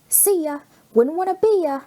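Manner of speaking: singsong parting taunt, high and loud; called out taunt. A narrator's reading. Spider-Man calling back to Rhino as he swings away, taunting. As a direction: toss it back over your shoulder as you swing off. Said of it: "he called as he shot away".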